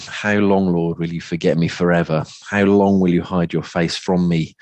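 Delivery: even, restrained, genteel psalm reading; polite longing, kept well contained. Shown as a demonstration. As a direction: read it as a gentle, wistful plea. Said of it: "almost the sense of, um, genteelness".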